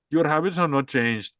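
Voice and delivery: put-on light Indian accent dad; a hint of an Indian father. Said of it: "Why you doing the Indian accent".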